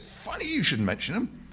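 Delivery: put-on old working-class Londoner, reminiscing; old man's voice. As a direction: play the old man, unhurried and rambling. Old man voiced in novel reading.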